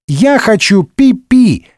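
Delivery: high, slow screeching wail; screeching child. Acted. The boy wetting himself, shrieking at full voice. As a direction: bawl it at the top of the lungs. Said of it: "во всё горло заверещал мальчуган".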